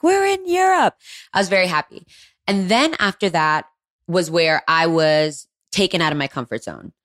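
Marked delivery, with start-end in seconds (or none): 0.0-1.0 high-pitched re-enacted yelling; retold excited yell. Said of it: "kept on yelling at Josie".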